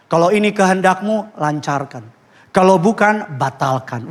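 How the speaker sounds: a lightly done, overly holy prayer; pious prayer. Retold or imitated. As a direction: pray it sweetly, sounding very spiritual. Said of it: "Wih, rohani banget ya".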